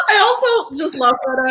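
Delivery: high, loud, laughing delivery; talking through laughter. Real, not acted. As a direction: keep laughing as you speak. Host still laughing.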